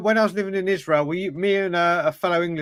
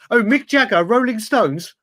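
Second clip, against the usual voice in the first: higher, louder mocking quote; pitched-up, eager mock exclamation; mock enthusiasm; 4 semitones higher, 4 dB louder than usual. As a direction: imitate clueless guys proudly trying slang. Imitating Americans' attempt at rhyming slang.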